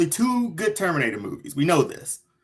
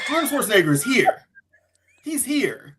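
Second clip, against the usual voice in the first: excited laughing shout; 4 semitones higher than usual. Real, not acted. Hyping Arnold's return.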